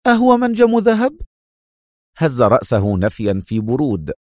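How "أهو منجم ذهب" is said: high-pitched, sharp woman's question; acted sharp interrogation. A narrator's reading. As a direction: demand it sharply, voice raised high. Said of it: "سألته في حدة".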